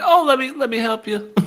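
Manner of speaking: high, sugary helpful voice; sweet offer. Retold or imitated. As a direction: offer help in a syrupy tone. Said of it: "And she's like".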